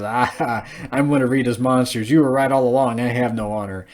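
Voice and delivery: mock villain chuckle leading into the line; lightly acted gloating with a short laugh; chuckling monster. Monster owns up to Trini, chuckling in mock triumph. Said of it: "it just chuckles and says".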